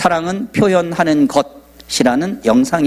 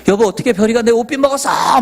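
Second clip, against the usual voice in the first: retold shout; 7 semitones higher than usual. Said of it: "막 소리 지르는 거예요".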